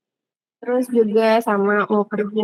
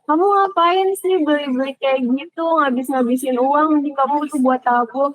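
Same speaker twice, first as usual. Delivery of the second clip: mama marah; 3 semitones higher than usual. Retold or imitated. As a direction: lightly imitate a mom telling off her child. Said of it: "malah marah". (menirukan ibu mengomel ringan)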